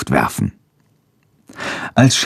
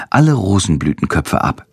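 ordinary delivery

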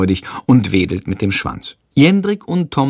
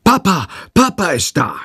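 high, happy mock call to the whole flat; joyful shout; 8 semitones higher than usual. A narrator's reading. Jendrik calls happily through the flat, high excited voice. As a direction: call out for joy, lightly acted. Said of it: "schreit freudig durch die ganze Wohnung".

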